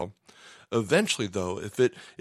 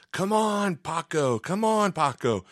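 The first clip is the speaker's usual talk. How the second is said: retold gym-partner scream; 7 semitones higher, slower than usual. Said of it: "And he's screaming".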